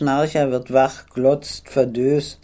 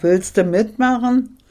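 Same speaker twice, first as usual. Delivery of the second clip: much higher and louder, jeering; mocking shout; 9 semitones higher, 3 dB louder than usual. Officer teasing the girl loudly after laughing. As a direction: roar the question like a joke. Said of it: "brüllt er".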